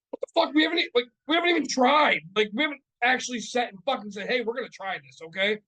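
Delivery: high, loud, exasperated outburst; worked-up, incredulous complaint; indignant protest. Retold or imitated. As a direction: retell an outraged objection, starting at full pitch. Retold protest about never trying.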